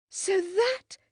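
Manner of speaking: sudden high-pitched outburst; bursting out. A narrator's reading. Margaret blurts her discovery indoors, bursting out. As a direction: let it break out before you can stop it. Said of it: "burst from her".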